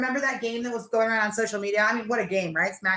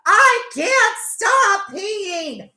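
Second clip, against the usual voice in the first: very slow, high and louder, laughing it out; laughing helplessly; 7 semitones higher, 6 dB louder, much slower than usual. Retold or imitated. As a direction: stretch it out through helpless laughter. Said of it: "And she's like".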